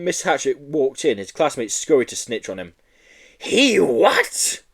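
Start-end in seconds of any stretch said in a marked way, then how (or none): 3.4-4.6 high, loud outraged shriek. Acted. Teacher hearing the news, high outraged shriek. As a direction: shriek in disbelief. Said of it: "shrieked Miss".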